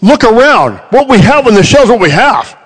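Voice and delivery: hammed-up irritated shopkeeper; retold angry outburst. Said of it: "he was mad".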